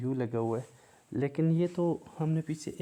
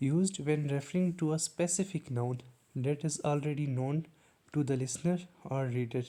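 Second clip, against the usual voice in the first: very slow, word by word, like dictating a definition; slow dictation; much slower than usual. Shown as a demonstration. Teacher reading the definition slowly to students. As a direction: spell it out slowly for the class.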